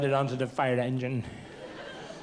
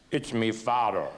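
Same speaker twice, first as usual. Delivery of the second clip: deep fake voice; 5 semitones lower than usual. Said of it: "I'd put on a deep voice".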